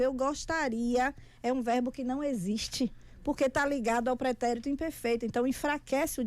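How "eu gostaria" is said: slow weak opener. Shown as a demonstration. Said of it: "inicia o discurso com o verbo no futuro do pretérito".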